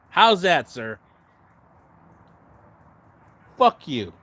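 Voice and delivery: venting rant. Real, not acted. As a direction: let it all out, angry and loud. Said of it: "I got that out of my system".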